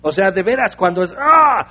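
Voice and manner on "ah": short raised burst of gut anger; angry roar. Acted. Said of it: "El enojo es entrañable ira". (grito de rabia desde las entrañas)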